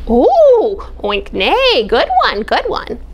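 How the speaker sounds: high, delighted repeating; excited crow. Acted. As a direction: gush over the secret.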